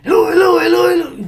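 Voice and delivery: high, loud frantic yelling of the dog's name; shouting at dogs. Shown as a demonstration. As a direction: yell the name like a panicked owner. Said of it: "Eso no, no va a ayudar en nada".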